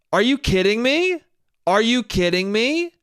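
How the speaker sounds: mock indignant question, pitch climbing at the end; retold outraged disbelief. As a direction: imitate an affronted woman, voice rising on "me". Woman confronts him outside the bar.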